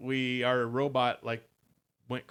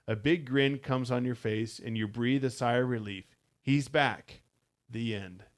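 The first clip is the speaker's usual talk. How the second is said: steady storybook read-aloud; story narration. A narrator's reading. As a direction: read the adventure to listeners, evenly paced. S0 finishes reading the story.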